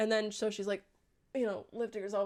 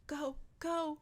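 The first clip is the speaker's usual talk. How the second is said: breathy unvoiced whisper, softer; urgent whisper; 5 semitones higher, 7 dB quieter than usual. Feyre tells Rhys to flee, whispered. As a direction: hiss it out urgently. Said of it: "and she's like".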